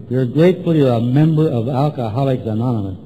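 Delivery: measured list-item dictation; dictating. Retold or imitated. Sponsor dictating gratitude list to newcomer, dictating. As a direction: dictate it for someone writing. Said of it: "you write and I'll dictate".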